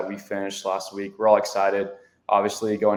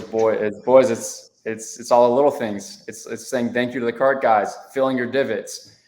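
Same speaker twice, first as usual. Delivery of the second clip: lightly voiced coach pep talk; earnest coach lecturing the boys; Coach Limbaugh impression; 3 semitones higher, 4 dB louder than usual. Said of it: "a tiny Coach Limbaugh impression".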